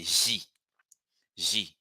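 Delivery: J said as "zhee", soft "zh" onset; soft J for juice. Shown as a demonstration. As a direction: model J twice as a gentle "zhee". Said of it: "say J".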